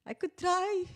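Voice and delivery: high-pitched mock Russian accent; put-on Russian English; bad Russian accent. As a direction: answer in a hokey Russian accent. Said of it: "this really bad Russian accent".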